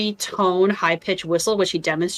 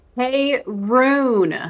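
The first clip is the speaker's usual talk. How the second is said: loud call, one word stretched long; 5 semitones higher than usual. Repeating an in-character call to a distant ally on request: shouting a name. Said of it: "I wanna hear what you shouted".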